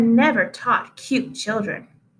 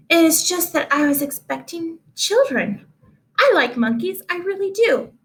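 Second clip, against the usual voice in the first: higher, gushing teacher voice; eager teacher; 3 semitones higher than usual. Acted. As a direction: reassure the class brightly, pitched up. Teacher reassures monkeys.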